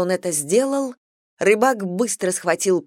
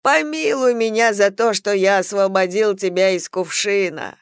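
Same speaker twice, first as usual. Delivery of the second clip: pleading weep; 3 semitones higher, 4 dB louder than usual. Acted. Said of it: "он громко заплакал и сказал".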